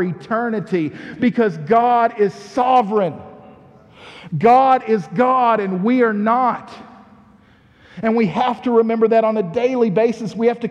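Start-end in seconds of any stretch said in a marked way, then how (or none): 4.4-6.7 louder, slower and driven; forceful declaration. Acted. Preacher pressing the truth on his congregation, forceful and slow. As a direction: proclaim it to the back row.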